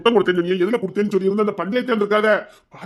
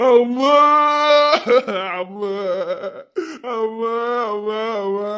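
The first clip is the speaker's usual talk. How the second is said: put-on crying child; slower than usual.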